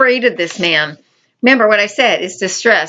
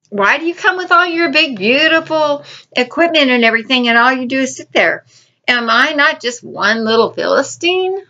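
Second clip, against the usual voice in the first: yelling giant; 3 semitones higher than usual. Retold or imitated. The giant taunting the armies of Israel, yelling challenge. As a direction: bellow it across the valley like a mocking giant. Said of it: "He's yelling at him".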